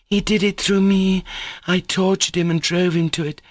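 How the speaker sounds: high, tearful wail of guilt; heart-rending cry. A narrator's reading. Grushenka at the captain's feet, wailing high. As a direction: plead through tears. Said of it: "she cried in a heart-rending voice".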